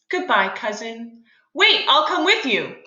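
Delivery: reading the script aloud for the class; dramatic play reading. Acted. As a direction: read the scene out with feeling.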